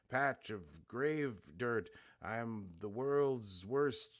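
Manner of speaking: slow, drawn-out grand mystic pronouncements; Q's grandiose riddling. Acted. Q evading Sung's question at the diner, slow and grandiose. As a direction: lay it on like a cosmic riddler, slowly. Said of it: "He just says a lot of Q-y stuff".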